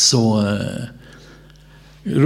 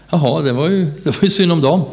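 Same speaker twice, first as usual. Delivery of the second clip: higher, rising, offhand "det var ju synd om dem"; indifferent shrug; 4 semitones higher than usual. Retold or imitated. Tired missionary brushing off the unreached villagers, indifferently. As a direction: toss it off as if it hardly matters. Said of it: "Och det blev inte mer än så".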